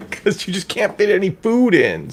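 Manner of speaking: laughing through the words. Real, not acted. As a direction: giggle while saying it. Joking about corsets and dieting.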